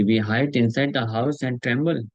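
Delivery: measured, very slow reading of the translation; solemn scripture translation. Acted. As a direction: read each word deliberately to the listeners. Reads translation slowly.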